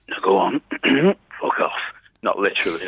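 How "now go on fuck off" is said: throaty Peaky Blinders gangster; Tommy Shelby impression. Comedian showing his Tommy Shelby voice, pressed impression. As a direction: pressure on the throat, a curt dismissal. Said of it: "so I started to do Tommy Shelby".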